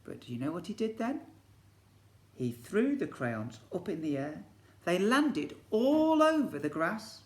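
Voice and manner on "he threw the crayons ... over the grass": higher, louder, slow; dramatic narration. A narrator's reading. Teacher tells the crayons scattering, dramatic. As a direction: make it a big moment.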